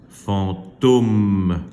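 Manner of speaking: "Fantôme" with a long hummed M at the end; final-sound demonstration. Shown as a demonstration. Teacher confirming the last sound, stretched "Fantôme". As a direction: linger on the M of "Fantôme". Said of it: "c'est le son".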